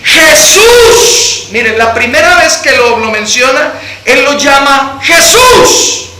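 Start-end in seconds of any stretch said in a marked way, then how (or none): 0.0-1.5 shouted, high cry of the name; calling out. Acted. Blind man shouting to Jesus, high cry. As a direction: call to him from the roadside.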